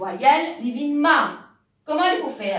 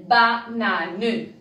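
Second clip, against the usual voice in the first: "banane" drawn out very slowly, syllable by syllable; slow demo; 3 semitones lower than usual. Shown as a demonstration. Teacher blending syllables for children, slowly. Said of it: "Quand nous mettons trois syllabes".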